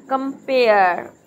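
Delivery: slow, stretched कंपेयर in two parts; syllables drawn out. Shown as a demonstration. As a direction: draw out both halves of कंपेयर. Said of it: "कम एक हो गया और पेयर दूसरा". (कंपेयर के दोनों हिस्से खींचकर)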